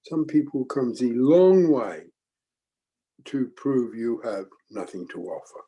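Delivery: lightly imitated German accent; a mild German-accented impression. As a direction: quote him with a hint of German, stretching the key words. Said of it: "in his heavy German accent".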